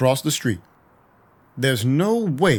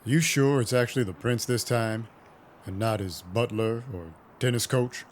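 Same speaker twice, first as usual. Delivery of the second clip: quiet threat; 6 dB quieter than usual. Acted. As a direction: lean in and threaten him softly. Narrator threatens the prince's courier.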